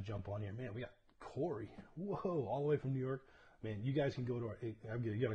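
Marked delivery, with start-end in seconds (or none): 2.0-3.2 excited greeting. Real, not acted. Greeting viewer on livestream.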